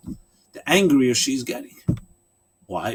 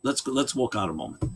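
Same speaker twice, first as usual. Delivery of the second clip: mock whisper; 7 dB quieter than usual. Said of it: "she whispers to him".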